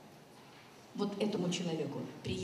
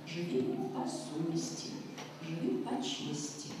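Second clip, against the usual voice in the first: slow precept; slower than usual. Retold or imitated. Quotes the grandmother's life precept.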